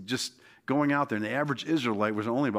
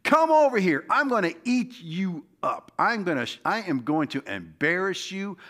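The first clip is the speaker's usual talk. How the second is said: taunting giant; 4 semitones higher than usual. Acted. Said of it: "That's what he was basically saying".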